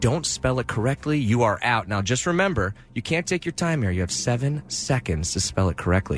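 upbeat game show host patter; smooth, savory host delivery. Acted. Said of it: "my sweet and savory game show host voice".

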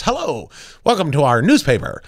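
lightly put-on Mid-Atlantic newsreel greeting; a hint of thirties Mid-Atlantic accent. Shown as a demonstration. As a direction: imitate old movie Mid-Atlantic talk. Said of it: "where everybody's talking like this".

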